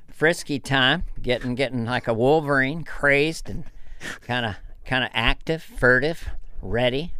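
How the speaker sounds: Doctor Phil impression. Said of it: "Doctor Phil versus George Bush Senior".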